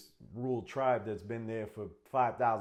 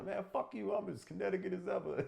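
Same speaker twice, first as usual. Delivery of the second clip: mock Connecticut tough guy; 11 semitones higher than usual. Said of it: "Bridgeport, baby".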